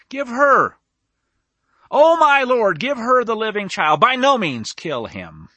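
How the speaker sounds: a touch of desperate begging, slowing at the end; pleading mother. Acted. Mother giving up her child to save him, mildly pleading. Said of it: "One of them screams".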